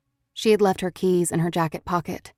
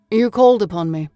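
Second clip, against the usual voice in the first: a hint of a smooth stranger, calmly announcing himself; lightly voiced visitor, unhurried and sure; 2 semitones higher, 7 dB louder than usual. Intruder on her sofa greets Odessa, smooth and calm.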